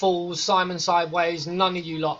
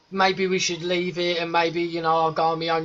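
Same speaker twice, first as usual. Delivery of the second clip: mock meek suggestion. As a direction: imitate someone backing down politely. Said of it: "he's not saying".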